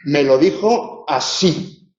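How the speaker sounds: slow build to a stressed así; emphatic stress on ASÍ. Shown as a demonstration. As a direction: lean hard on the final así. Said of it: "ese así puede tener un acento especialmente recalcado".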